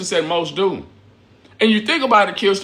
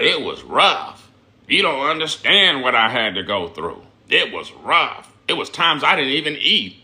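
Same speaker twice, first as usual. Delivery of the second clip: mocking whiny mom. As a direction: drag it out like a self-pitying mom. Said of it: "Be up there talking about".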